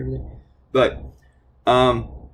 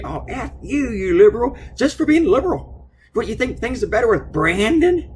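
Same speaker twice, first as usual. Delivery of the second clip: much higher and louder mocking imitation of a ranting woman; hammed-up tirade, pitched way up; mock angry rant; 12 semitones higher, 4 dB louder than usual. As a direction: caricature of an angry heckler, shrill and loud. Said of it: "And she starts giving me".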